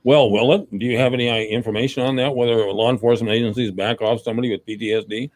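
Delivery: talking around a chip; chewing while asking; mouth full. Real, not acted. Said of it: "hard to understand you 'cause you had that chip in your mouth".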